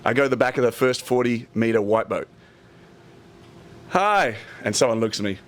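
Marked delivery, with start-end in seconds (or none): 3.9-4.3 higher-pitched, eager hello; chirpy hopeful greeting. Retold or imitated. Job-seeker greeting a yacht crew, chirpy and hopeful. Greeting crews while seeking work.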